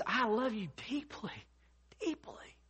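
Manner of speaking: hushed heartfelt emphasis, sinking to a whisper. Retold or imitated. Apostle telling believers of his love, tender and hushed. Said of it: "you just feel so strongly".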